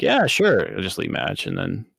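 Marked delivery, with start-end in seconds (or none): 0.0-0.7 high-pitched, put-on willingness; feigned agreement. Troll accepting a group invite before leaving, falsely agreeable. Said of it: "And I'm like".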